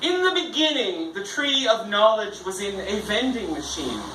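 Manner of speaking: storytelling recital, opening high; poetry reading. Acted. Poet reads Ballad in Crazy Quilt, storytelling recital. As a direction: launch the ballad like a creation tale.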